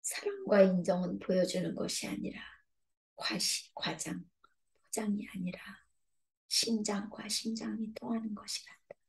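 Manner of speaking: soft, hushed voice of God; gentle whisper. Acted. God answering the repentant heart, softly. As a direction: let the answer fall to a whisper.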